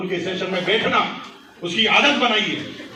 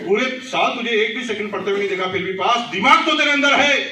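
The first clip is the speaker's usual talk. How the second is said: raised pitch, building to a loud peak; emphatic praise; 5 semitones higher, 3 dB louder than usual. Shown as a demonstration. Parent praising child who passed without studying, emphatic. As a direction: turn it into admiration, ending high and loud. Same words turned into praise.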